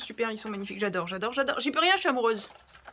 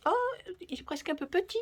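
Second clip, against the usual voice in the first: imitated dismay; 8 semitones higher than usual. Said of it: "je me dis".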